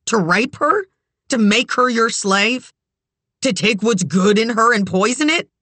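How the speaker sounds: high, horrified questions; distraught rising accusation; trembling cry. A narrator's reading. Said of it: "she cried, trembling".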